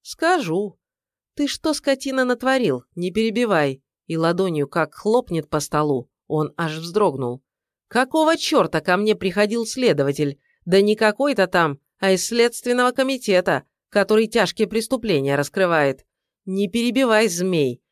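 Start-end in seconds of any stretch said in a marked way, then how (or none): 0.0-2.8 angry demand. Acted. Ex-wife confronting him angrily. 3.0-3.8 angry order. Acted. Angry interruption, hand slap. 7.9-16.0 loud, raised accusing rant; angry tirade. Acted. 16.5-17.8 angry order. Acted. Angry interruption.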